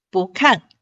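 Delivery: 不看 with 不 rising, 看 falling; bú kàn demo. Shown as a demonstration. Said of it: "看，四声".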